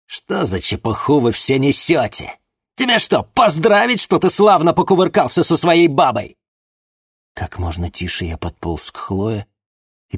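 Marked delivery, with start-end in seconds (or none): 0.0-6.4 high, loud, sneering mockery; contemptuous shout. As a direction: jeer at him loudly. Captor mocks the begging shopkeeper.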